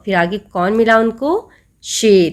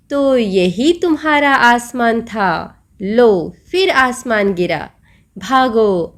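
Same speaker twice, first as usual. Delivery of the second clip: teasing mockery; slower than usual. Lion mocks the rabbit.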